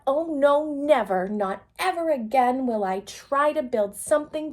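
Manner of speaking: put-on loud, emphatic girl's vow; loud upset vow never to build again. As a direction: declare it like a humiliated child swearing off. Rosie's despairing vow.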